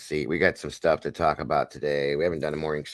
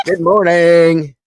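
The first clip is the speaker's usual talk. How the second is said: drawn-out good morning; 13 semitones higher, 17 dB louder, much slower than usual. Acted. Teasing a sleepy viewer.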